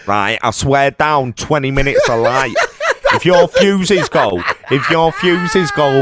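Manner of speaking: lightly exaggerated Cockney mate impression; hammed-up Cockney chancer swearing it's true; Cockney John. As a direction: drag out the phrases like a matey Londoner. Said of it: "that is the worst impression anyone has ever done of me".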